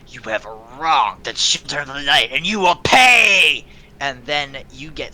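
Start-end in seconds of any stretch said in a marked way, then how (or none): 0.1-3.6 a hint of a threatening cultist; lightly voiced vow of revenge; menacing assassin. Attacker threatening the party, lightly menacing. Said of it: "they say".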